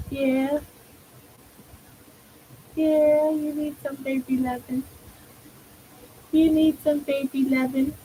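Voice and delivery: tender little coaxing questions. Real, not acted. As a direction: coo sweetly to a beloved pet. Cooing to the pet.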